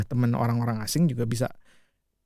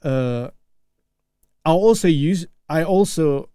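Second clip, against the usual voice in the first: practised American English accent; non-native speaker's careful American accent. Real, not acted. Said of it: "I go with American accent".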